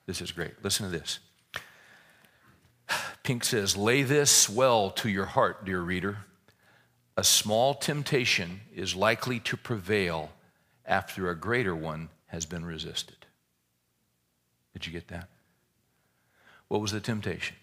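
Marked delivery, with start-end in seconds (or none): 3.8-13.2 slow, weighty reading of a quote; solemn reading. Acted. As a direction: lay it on their hearts slowly. Reads Pink quote to congregation.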